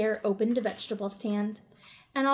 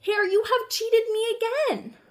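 higher, accusing bear; a touch of grumpy anger; mild scowling complaint; 10 semitones higher, 3 dB louder than usual. Acted. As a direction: Bear scolding Hare after the harvest. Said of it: "looked at his pile and scowled".

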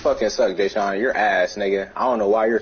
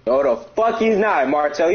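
indignant disbelief; 5 semitones higher, slower than usual. Real, not acted. Indignant denial to Martel.

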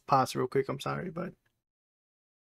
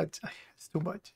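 slow, much softer, trailing off; overwhelmed murmur; 16 dB quieter, much slower than usual. Real, not acted. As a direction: mutter it slowly under your breath, worn out. Reactor overwhelmed by clip.

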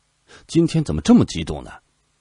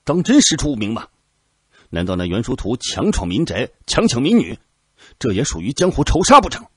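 high, loud indignant retort; loud protest; 5 semitones higher, 6 dB louder than usual. A narrator's reading. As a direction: throw the accusation back hard. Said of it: "颜如山大声道".

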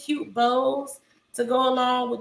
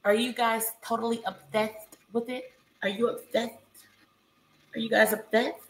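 soft, breathy influencer voice; talking like Alex; 6 dB quieter than usual. Retold or imitated. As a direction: gush softly like a haul vlogger. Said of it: "That's me talking like Alex".

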